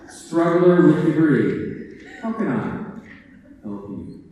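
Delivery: lordly, mock-grand librarian voice, slow and savoring the titles; arrogant librarian. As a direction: play the haughty master of the desk. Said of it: "it often gets interpreted as".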